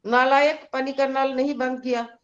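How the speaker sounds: mildly imitating a scolding father; retold scolding. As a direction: lightly act out a father's reprimand. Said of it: "ऐसे डांट-डांट के उसको".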